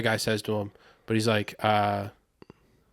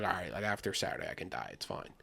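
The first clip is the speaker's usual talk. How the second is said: put-on contented old fan; 5 semitones lower, 13 dB quieter than usual. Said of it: "old people who are gonna be like".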